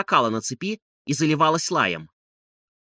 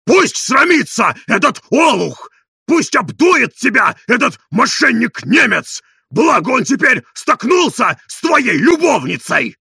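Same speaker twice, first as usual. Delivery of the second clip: slow, loud, higher jeering shouts; yelling; 8 semitones higher, 7 dB louder, slower than usual. A narrator's reading. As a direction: hurl the insults slowly. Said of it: "вопил Тарантьев".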